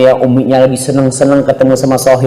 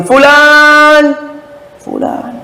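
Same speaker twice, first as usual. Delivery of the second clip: mother calling; 12 semitones higher, much slower than usual. Retold or imitated. Mother calling her son during his prayer, high then fading. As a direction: call the son's name, then let it drop away. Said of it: "dipanggil sama ibumu".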